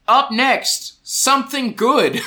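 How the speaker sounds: announcer voice. Shown as a demonstration. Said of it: "I wrote here".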